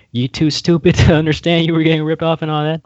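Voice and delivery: high, loud scolding boss voice; mock gangster boss. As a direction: chew them out like a mob boss. Acted De Niro quote.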